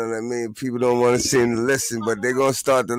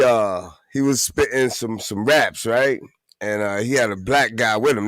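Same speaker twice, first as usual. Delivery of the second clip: ordinary talk, nothing marked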